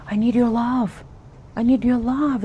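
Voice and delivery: put-on a touch of a child pleading for affection; begging inner child. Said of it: "who is just begging".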